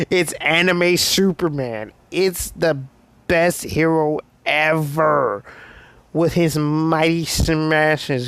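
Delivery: hammed-up awe, drawn-out emphasis; starstruck fanboy. Deku in his mind on meeting All Might, acted fanboy losing it. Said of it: "he's freaking losing it".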